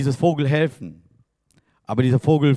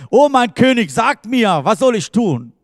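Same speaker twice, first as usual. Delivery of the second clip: pleading devotee; 6 semitones higher, 5 dB louder than usual. Acted. Believer begging king for orders.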